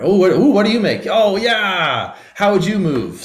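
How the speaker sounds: high, fast, excited voice; excited play voice. Pretend. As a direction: gush at the child. Playing dinosaurs with a child.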